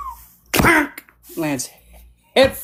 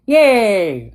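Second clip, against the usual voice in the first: mock kid cheer; 6 semitones higher, 6 dB louder than usual. Little sibling cheering at the news.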